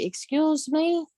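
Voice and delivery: high, drawn-out "excuse me"; slow rising challenge; warning "excuse me". Acted. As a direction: stretch it out as a pointed warning. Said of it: "when you hear me say".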